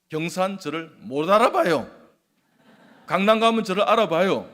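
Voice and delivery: loud, high-pitched comic boast; joking boast. Real, not acted. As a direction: boast loudly for a laugh.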